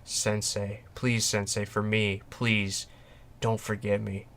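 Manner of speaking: soft, understated tearful plea, retold; tender retold plea. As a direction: plead softly, imitating someone happily tearful without really crying. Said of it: "she's happy crying".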